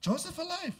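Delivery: disbelieving rising question on alive; incredulous. Acted. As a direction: scoff at the idea. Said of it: "and he says".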